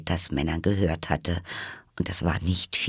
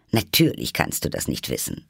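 lower-pitched, mildly contemptuous dismissal; scornful; 6 semitones lower than usual. Acted. The Hatter dismisses Alice's ignorance, scornfully. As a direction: look down on the listener with mild scorn. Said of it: "den Kopf verächtlich in die Höhe warf".

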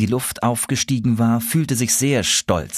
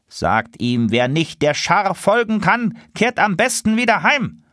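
a hint of an old lead goose, raised; lead goose dismissive; 9 semitones higher than usual. Lead goose dismissing the gander, lightly voiced. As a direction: brush him off. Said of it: "rief die Führergans".

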